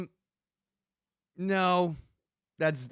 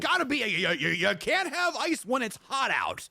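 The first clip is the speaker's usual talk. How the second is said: laughing; 13 semitones higher, 4 dB louder than usual. Real, not acted. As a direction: giggle through the obvious point. Laughing agreement, high pitch.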